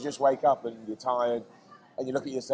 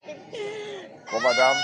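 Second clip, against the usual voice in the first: high pained squeak; much slower than usual. Real, not acted. Reacting to chili heat.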